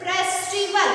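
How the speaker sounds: "festival" pronounced clearly and firmly for learners; careful pronunciation. Shown as a demonstration. Teacher shows the class how the word is pronounced, careful pronunciation. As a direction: say "festival" slowly and distinctly. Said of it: "pronunciation of this word is".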